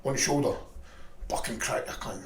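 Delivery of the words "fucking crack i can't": whispered crack. Retold or imitated. Retelling the blow.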